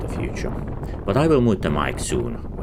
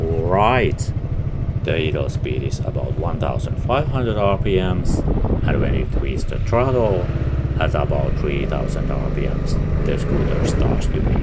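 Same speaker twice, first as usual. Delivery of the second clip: raised voice over the engine noise; shouting over wind; 5 dB louder than usual. Real, not acted. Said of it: "I'm sorry about the wind noise".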